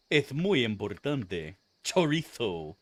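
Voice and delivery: slow Castilian Spanish, Chorizo with a th for the z; Castilian lisp. Shown as a demonstration. Streamer showing Spain Spanish, Chorizo with lisped th. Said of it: "so she had the lisp".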